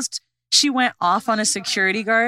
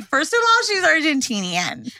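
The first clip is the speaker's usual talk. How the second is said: sassy high retort; 5 semitones higher than usual. Retold or imitated. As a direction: snap back with attitude. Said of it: "I was like".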